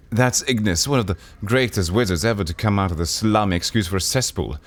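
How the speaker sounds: lightly voiced sorrowful woman; woman character. Woman explaining Ignis's fate to the player.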